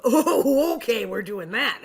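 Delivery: laughing through a quick mock realization; a bright, laughing "oh, okay". Actress reading her script for the first time, laughing. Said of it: "So it's very easy to go".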